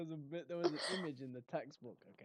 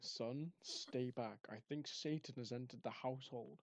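slightly lower, softly measured dad voice; lightly voiced stern dad; 4 semitones lower, 5 dB quieter than usual. Dad warns son about Satan downstairs, lightly acted stern voice. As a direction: lightly play a wary father warning his son. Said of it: "the dad walks downstairs like".

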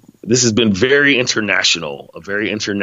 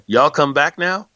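slow, higher hillbilly send-off; lightly put-on hillbilly accent, drawn out; hillbilly drawl; 6 semitones higher, slower than usual. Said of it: "That's really the Beverly Hillbillies".

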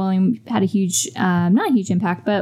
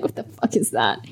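mock deadpan; 9 semitones lower, 4 dB quieter than usual. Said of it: "And be like".

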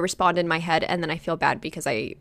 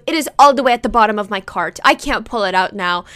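louder, mildly exasperated complaint; imitated annoyed mom; 4 dB louder than usual. Mom stuck with the cart, imitated annoyance. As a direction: complain as a put-out mother. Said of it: "And she got so annoyed".

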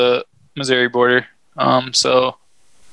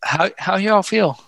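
hype call; 6 semitones higher than usual. Acted. Host rallies the audience.

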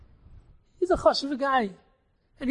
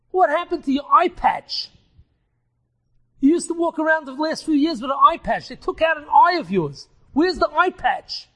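raised, louder puzzled asking; astonished question; 4 semitones higher, 4 dB louder than usual. Acted. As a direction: wonder aloud what changed. Rebbe surprised at friend's eye.

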